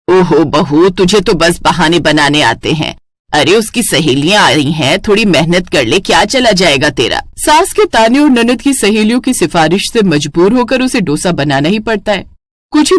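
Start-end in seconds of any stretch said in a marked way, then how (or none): 0.1-7.2 lower, nagging elder; a hint of a stern mother-in-law; scolding mother-in-law. Mother-in-law scolding the bride, lower nagging voice.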